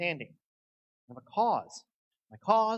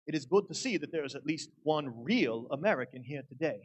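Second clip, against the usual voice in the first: lightly voiced Confederate general; a hint of a formal old general; Confederate general impersonation. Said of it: "Confederate general impersonation".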